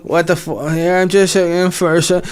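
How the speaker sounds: barge into the lab as the sister; Dee Dee voice. Retold or imitated. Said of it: "she's like".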